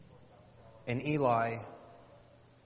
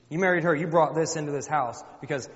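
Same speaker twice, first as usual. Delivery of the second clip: loud, raised-pitch accusation; accusing wife; 3 semitones higher, 6 dB louder than usual. Acted. Wife blaming husband for his other marriage, accusing. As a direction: lay the blame on him loudly.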